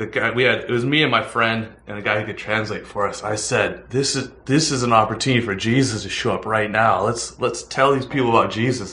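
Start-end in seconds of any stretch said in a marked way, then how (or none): none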